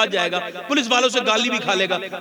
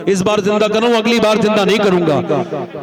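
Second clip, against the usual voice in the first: stern warning; 5 dB louder than usual. Retold or imitated. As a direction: warn the kite firmly and loud. Saint warns the kite sternly.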